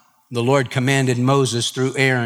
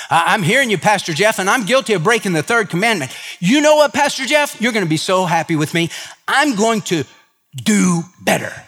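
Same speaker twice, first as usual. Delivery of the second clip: a keen member of the flock gushing to the pastor; eager churchgoer; 6 semitones higher than usual. Retold or imitated. Churchgoer gushing to Pastor Jeff, eager and fast. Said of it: "you say".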